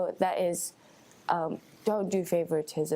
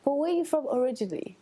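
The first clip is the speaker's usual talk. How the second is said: quick, higher mock-curious quizzing; imitating a skeptical question; 8 semitones higher, much faster than usual. Strangers asking where she's really from, quick mock-doubtful question. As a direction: retell the doubtful question lightly. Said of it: "they're like".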